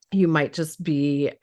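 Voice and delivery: strained, worn-out voice; hoarse voice. Real, not acted. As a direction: voice giving out, a bit hoarse. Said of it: "I'm losing my voice".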